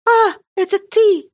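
high, loud startled gasp of relief. A narrator's reading. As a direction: jump at a voice in the dark. Marie startled in the dark.

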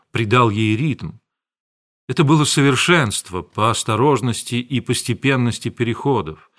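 ordinary delivery, nothing marked

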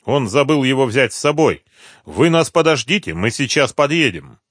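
quick promise over the phone; a hint of the friendly caller. A narrator's reading. Caller reassures.

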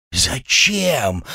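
high, stunned question; dumbfounded. Acted. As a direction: ask it as if thrown by the news. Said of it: "ошарашенно спросил сват". (ошарашенно, повысив голос)

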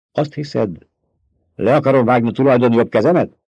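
a mild sharp snap; Paul flares up at Stilgar, sharp retort; snapped. Acted. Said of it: "Csattant fel Paul".

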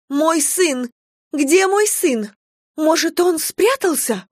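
a mother terrified her son is gone; panicking mother. A narrator's reading. (мать в панике ищет сына)

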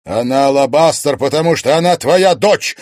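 loud, high cry of protest; urgent, ringing outburst; impassioned exclamation. A narrator's reading. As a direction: shout the truth at her, building. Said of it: "воскликнул Егор".

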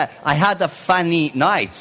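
put-on friend's Italian-accented English, funny said as "fanny". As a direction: imitate an Italian mispronouncing English. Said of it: "se pronunci come un A". (inglese con accento italiano)

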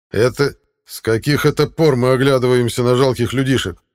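loud, threatening question; proud warrior's menacing retort. A narrator's reading. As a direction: challenge them with scorn. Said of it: "грозно вопросил он".

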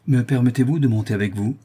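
obsequious. Acted. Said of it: "d'une façon obséquieuse".

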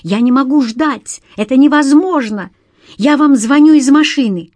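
high, loud frantic shouting; panicked shouting. A narrator's reading. The young man phoning the detective from his car, frantic shouting. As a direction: yell down the phone in panic.

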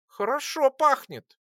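high, slow squeaky voice, curious; interested squeak. A narrator's reading. Lora sniffing the chocolate, curious high squeak. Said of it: "пропищала она заинтересованно".

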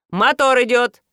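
loud, booming command; loud director's call; thundering call. A narrator's reading. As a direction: boom it across the studio. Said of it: "прогремел Виктор".

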